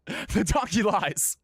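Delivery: very high, slow and loud; high slow punchline. Acted. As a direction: stretch it out up high. Punchline delivered again.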